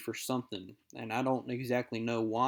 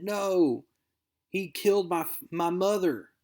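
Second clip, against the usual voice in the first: distraught; 6 semitones higher than usual. Acted. Harry's distraught outburst at Shaw.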